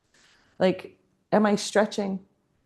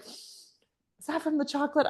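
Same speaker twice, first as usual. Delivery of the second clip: mock airhead; 8 semitones higher, 7 dB quieter than usual. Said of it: "he was like".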